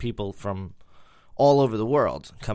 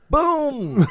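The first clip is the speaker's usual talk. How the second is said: much higher and louder exclaimed Boom; triumphant shout; 10 dB louder than usual. Acted. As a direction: slam the punchline home. Punchline shout.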